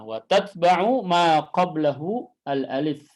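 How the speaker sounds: slow, measured chant; teacher reciting the whole line; recited verse. Shown as a demonstration. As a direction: chant it clearly for the class.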